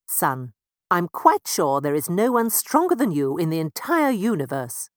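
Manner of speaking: a light mouse father declaring. Acted. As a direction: declare it firmly to the sun. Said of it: "Mister Mouse declared".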